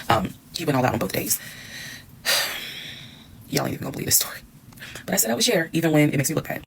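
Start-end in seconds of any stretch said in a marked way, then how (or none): 2.2-2.9 long breathy sigh before a confession; a tired sigh, then the secret; heavy sigh. Real, not acted. 3.5-4.4 confiding whisper to the audience; conspiratorial whisper before the juicy part. Real, not acted. Confiding to viewers.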